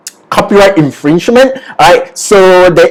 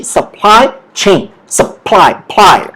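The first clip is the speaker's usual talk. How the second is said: "supply chain" broken up, PLY singled out; stress on PLY; 2 semitones higher, slower than usual. Shown as a demonstration. Teacher breaking the word down for students, stress on PLY in supply. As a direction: slowly isolate PLY from "supply". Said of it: "the stress is on ply".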